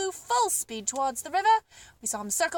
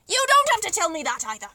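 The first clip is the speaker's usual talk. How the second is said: louder, cutting her off again; can't wait to show off what he knows; eager cry; 3 semitones higher, 6 dB louder, faster than usual. Acted. Duke interrupting the giraffe again, eager and loud. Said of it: "cried the Duke".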